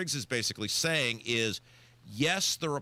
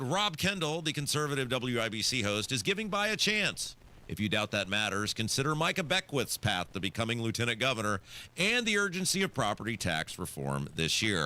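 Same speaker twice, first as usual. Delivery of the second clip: lightly voiced narrator read; 3 semitones higher than usual. Shown as a demonstration. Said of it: "I'll read it in my narrator voice".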